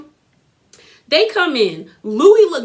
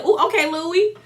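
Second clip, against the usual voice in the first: put-on much higher, teasing singsong like a child; like a little kid; 8 semitones higher than usual. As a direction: tease him like a cheeky little kid. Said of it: "I kinda like the little kid".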